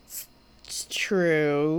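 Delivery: slow whispered admission; hushed aside. Real, not acted. Co-host concedes it's true, hushed and slow. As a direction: draw it out in a whisper.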